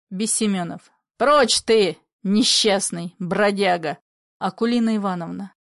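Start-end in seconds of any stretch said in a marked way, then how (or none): 1.2-4.0 contemptuous shout. Acted. Father dismissing friend.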